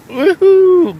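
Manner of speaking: very high, loud whoop of joy; morning cheer. Real, not acted. Vlogger cheering at the viewers after surviving the night, an excited, loud whoop.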